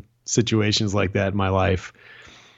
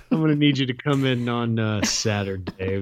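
Lumbergh impression. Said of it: "Lumbergh in, uh, in Office Space".

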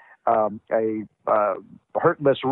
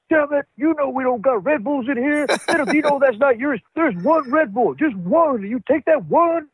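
Booker flipping out; 11 semitones higher than usual. Retold or imitated. Retelling Booker T losing it over his Red Bull, high mock rant. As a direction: shout it like a furious wrestler guarding his stash. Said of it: "Booker T would flip out like".

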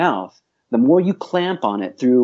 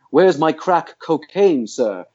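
slow, lifted, overly resonant actor's voice; overdone stage voice; 4 semitones higher, slower than usual. Shown as a demonstration. Coach mocking a performer who sounds fake. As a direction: ham up "Where's my crack cocaine" like bad Shakespeare. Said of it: "talking like this".

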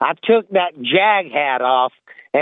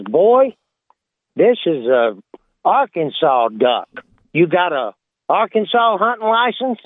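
lightly voiced warden, pitch jumping up on Boy; a game warden questions a hillbilly, mildly stern; a hint of a stern warden; 3 semitones higher than usual. A game warden grilling a hillbilly on his ducks, lightly gruff. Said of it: "and he says".

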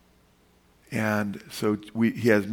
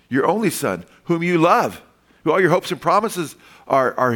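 impassioned preaching; 6 semitones higher, 4 dB louder than usual. Real, not acted. Preacher building emotional climax.

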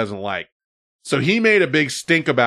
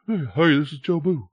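mock Texas accent; 3 semitones higher than usual. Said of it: "accents and all that stuff".

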